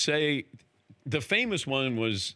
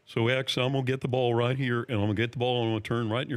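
lightly voiced player impression; a hint of a confident shot-caller; Larry Bird; 3 semitones lower, faster than usual. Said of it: "Is that your Larry Bird impression?".

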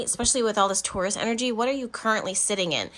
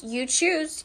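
raised pitch; 7 semitones higher than usual. Shown as a demonstration. Repeats you choose, higher.

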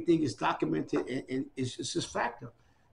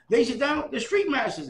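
higher, louder showman announcement; TV announcer; 10 semitones higher, 5 dB louder than usual. Retold or imitated. Imitating the TV host opening the pageant, announcer voice. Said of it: "he goes".

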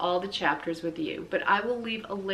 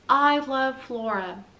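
slow, high and louder, each word spelled out; Ulysses' words; 5 semitones higher, 6 dB louder, slower than usual. Acted. Narrator reading the squirrel's message to kids, slow and high. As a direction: read it like a proud announcement.

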